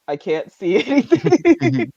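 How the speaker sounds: loud, drawn-out wail breaking into laughter; laughing mock complaint. Game master voicing Hubert who cannot see, laughing mock complaint. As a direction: wail it slowly through a laugh. Acting out bird-blinded character, laughing.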